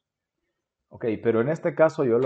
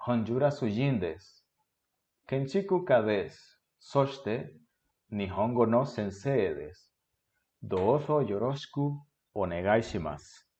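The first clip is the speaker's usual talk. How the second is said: fluent reading. Shown as a demonstration. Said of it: "la voy a leer fluido primero".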